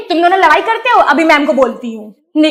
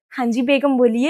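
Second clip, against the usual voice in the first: low, soft and respectful; soft husband; 5 semitones lower, 5 dB quieter than usual. Acted. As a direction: answer the wife gently, lower and softer. Husband answers wife softly.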